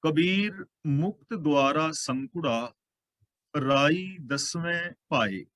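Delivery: slow, measured chanting of the verse; slow scripture recitation. Acted. Preacher reciting a verse to the congregation, slow and measured. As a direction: lay out each word of the holy line, unhurried. ਸ਼ਲੋਕ.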